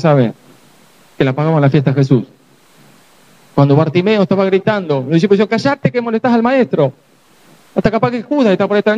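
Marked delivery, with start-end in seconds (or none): 5.5-6.9 a higher, scolding hush; hushing disciple. Retold or imitated. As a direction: shush the beggar like an annoyed disciple.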